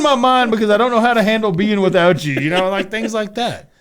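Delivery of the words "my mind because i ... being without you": high, loud crazed complaint; exaggerated worked-up wail; mock frantic outburst. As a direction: act out losing your mind. Acts out losing his mind.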